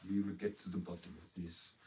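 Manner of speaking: playful mock Russian accent; put-on Russian accent, deliberate. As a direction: deliver it like a Russian official, accent lightly put on. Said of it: "when a Russian person does it".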